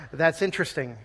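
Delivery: lightly voiced reserved agreement; a hint of restrained churchgoer; mock polite reserve. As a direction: say it politely noncommittal. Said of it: "that's a Presbyterian amen".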